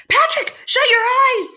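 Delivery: high, loud urgent yell; cowboy's shout. Acted. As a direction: bark the warning just before firing. Cowboy shouts before shooting.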